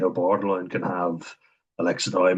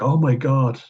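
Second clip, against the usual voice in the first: "Oh my God" higher and louder in mock shock; mock outraged girlfriend; 6 semitones higher, 5 dB louder than usual. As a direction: play the offended girlfriend, hammed up. Girlfriend outraged at his answer.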